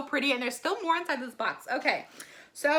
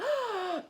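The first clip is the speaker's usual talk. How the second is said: quick high gasp; delighted gasp; 9 semitones higher than usual. Real, not acted. Vlogger seeing the double coat work, delighted gasp. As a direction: breathe in sharply, impressed.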